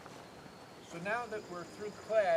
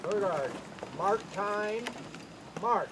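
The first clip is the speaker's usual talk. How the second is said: drawn out parade commands; slower than usual. Real, not acted. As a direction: stretch the command out. Drill commands.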